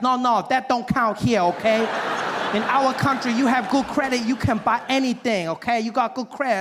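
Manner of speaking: put-on Asian salesman accent. Salesman lectures the customer on credit, mock Asian accent. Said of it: "He's like".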